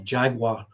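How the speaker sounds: "Jaguar" said as JAG-wahr, two syllables; American "Jaguar", JAG-wahr with the r sounded; American pronunciation. Shown as a demonstration. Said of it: "as the American folks say".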